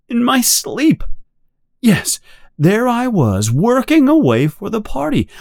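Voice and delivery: high, nervously eager voice of a scared man; frightened Parsons. A narrator's reading. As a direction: talk fast and high, desperate to sound loyal. Parsons pleads his case.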